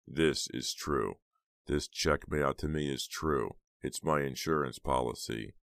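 smug Snowman. Acted. Snowman's threat in the story.

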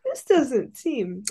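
a hint of a suspicious teacher, high; mock teacher. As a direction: play the nosy teacher, lightly. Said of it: "the teacher would have been like".

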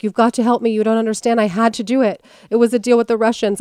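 hurried, mock-desperate appeal; urgent plea. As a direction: imitate someone rushing up begging for help. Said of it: "she comes rushing up to her".

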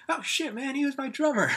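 loud, high mock amazement; astonished outburst. Brother recognizes his old drummer, loud retold astonishment. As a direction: burst out imitating the amazed brother.

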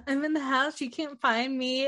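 lightly playful, teasing killer; mock giggly taunt. Retelling the killer's phone call, giggly taunt. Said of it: "he's, like, giggling, like".

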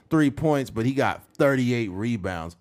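ordinary talk, nothing marked

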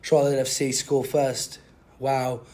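put-on British football pundit; British accent. British man describes the opening goal, mock British accent. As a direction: recap the match in a British accent. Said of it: "I'll speak in a British accent".

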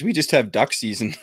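amused, laughing at the punchline. Real, not acted. Canadian teasing Americans about their many seasons, laughing. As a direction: let a laugh break in at the end. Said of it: "I'm just laughing".

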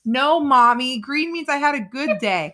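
put-on a small child setting mom straight; daughter correcting mom. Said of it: "And I'd be like".

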